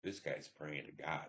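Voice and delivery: soft, slowed, stunned murmur to himself; hushed realization; quiet inner voice. Retold or imitated. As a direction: say it under your breath, struck by what you see. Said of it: "That's what I said to myself".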